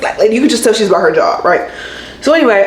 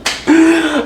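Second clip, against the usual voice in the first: exasperated gasp; 7 semitones higher than usual. Retold or imitated. Exasperated reaction to agent's answer.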